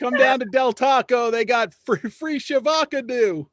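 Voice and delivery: high, loud ad-style holler; vine impression. Host re-enacting a vine for laughing friends, high-pitched impression. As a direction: pitch it way up, drawing out the last words. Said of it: "I fucking love that vine".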